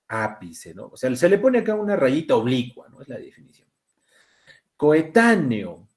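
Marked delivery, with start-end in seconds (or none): 4.8-5.9 "Coetáneo" drawn out with TÁ stressed; "co-e-TÁ-ne-o", stretched to show the accent. Shown as a demonstration. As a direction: slowly lean on TÁ in "Coetáneo". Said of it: "estas sí tienen".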